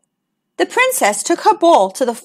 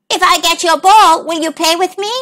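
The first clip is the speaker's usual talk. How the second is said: a lightly voiced, slightly higher frog; 4 semitones higher than usual. A narrator's reading. Frog offers to fetch the princess's ball, light hopeful frog voice. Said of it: "saw a frog sitting on a lily pad".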